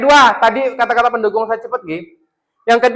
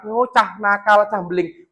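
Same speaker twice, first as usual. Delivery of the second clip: slow scornful labelling; brand the child naughty; mild mock scolding; scolding label; much slower than usual. Shown as a demonstration. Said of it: "Tapi kalau bilang".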